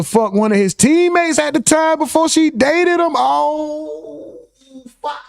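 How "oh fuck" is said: high, stunned disbelief; real shock at the chat's gossip. Real, not acted. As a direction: react like the gossip just floored you.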